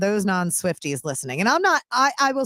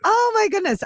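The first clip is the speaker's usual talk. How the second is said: exasperated surprise; 12 semitones higher than usual. Real, not acted. Reacting to the song's lyrics.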